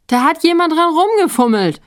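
high, loud cry of protest; indignant shout. A narrator's reading. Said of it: "rief Stief". (empörter, hoher Ausruf)

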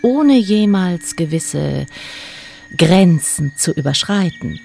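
evil queen. A narrator's reading. Queen speaks softly, mocking.

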